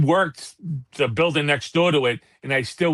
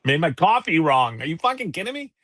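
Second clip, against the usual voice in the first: higher, mocking whine of an entitled customer; mock outraged customer; 4 semitones higher than usual. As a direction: sneer it like the jerk who got the wrong coffee. Mocking the rude coffee customer.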